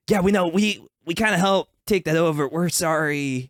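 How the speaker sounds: lightly voiced apologetic turtle; sheepish ninja. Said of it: "Michelangelo pipes up and he's like".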